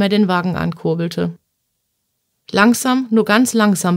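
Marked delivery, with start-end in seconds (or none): 2.5-4.0 mildly firm order; a touch of command in the voice. Acted. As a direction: give a measured, insistent instruction. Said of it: "befahl Herr Doktor Hillinger".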